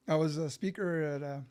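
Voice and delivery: talking around candy in mouth; mouth full. Real, not acted. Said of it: "sorry, I got the candy in my mouth".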